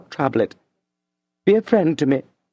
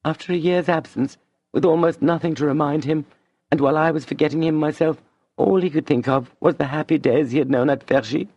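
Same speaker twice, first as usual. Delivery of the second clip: higher, tearful inner voice; Madame, moved; 8 semitones higher, faster than usual. A narrator's reading. Madame talking to herself, mild tearful tenderness. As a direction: ache with tenderness.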